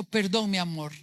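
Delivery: low, measured mock apology; acted apology. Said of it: "La madurez se expresa diciendo". (disculpa actuada, en voz baja de tono)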